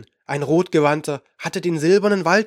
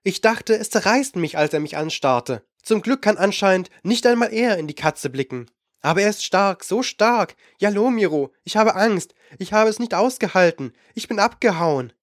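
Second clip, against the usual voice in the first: young girl's voice, higher, a hint of fear; the girl confessing her fear, pitched higher; frightened young girl; 4 semitones higher than usual. Girl character Aramau speaks frightened.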